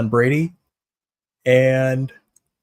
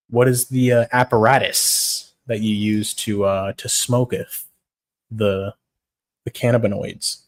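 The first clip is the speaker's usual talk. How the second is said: mock pompous; slower than usual. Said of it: "Just say that in the stupidest way possible".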